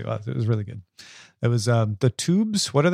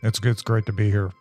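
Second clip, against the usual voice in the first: odd bored voice; 4 semitones lower than usual. Real, not acted. Host greeting listeners in a put-on bored voice. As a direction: sound oddly bored as a joke. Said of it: "I don't know why I'm talking like this suddenly".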